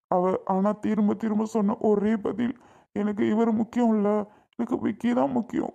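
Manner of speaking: tearful retelling to a friend; crying. Acted. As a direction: recount the rejection through tears. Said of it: "அழுதிட்டு இருக்கிறது". (அழுகையோடு சொல்லும் குரல்)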